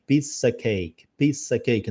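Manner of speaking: "piece of cake" heard as "pizza cake"; reduced form. Shown as a demonstration. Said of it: "A piece of cake vira pizza cake". ("piece of cake" soando como "pizza cake")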